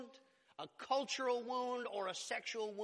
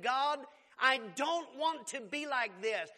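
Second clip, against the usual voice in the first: imitated desperate plea, raised, louder and slow; crying out to God; 5 semitones higher, 6 dB louder, slower than usual. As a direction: plead upward to God, slowly, as in a retelling. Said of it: "she cried out to God".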